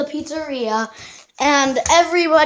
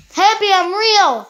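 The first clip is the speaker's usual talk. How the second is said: high, raised story voice; high, emphatic acted call; insistent calling; 7 semitones higher, 4 dB louder than usual. Calling out to Helpy.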